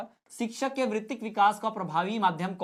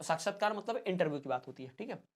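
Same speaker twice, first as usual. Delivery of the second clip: usual speaking voice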